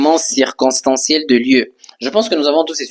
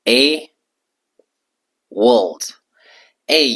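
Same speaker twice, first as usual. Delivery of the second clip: whispered model word; slower than usual. Shown as a demonstration. Teacher whispering the word for the class. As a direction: breathe the word world out. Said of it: "La phrase commence avec a world".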